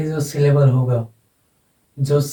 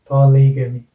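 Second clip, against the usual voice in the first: "पॉलीगेमी" as puh-LEE-guh-mee, louder on "ली"; stress on LI; 4 dB louder than usual. Shown as a demonstration. Teacher models the word for students, stress on LI. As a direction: punch "ली" in "पॉलीगेमी". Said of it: "ये हो जाएगा".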